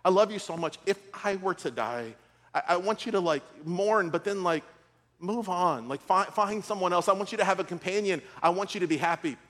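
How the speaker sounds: retelling a tender plea to a spouse with understated emotion; lightly acted heartfelt confession; retold emotional plea. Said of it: "I got overcome with emotions".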